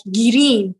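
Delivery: drawn-out Persian-accented color words. Shown as a demonstration. Teaching colors in Farsi for a video, playful Persian accent. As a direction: show off a Persian accent, slowly. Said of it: "Persian accent".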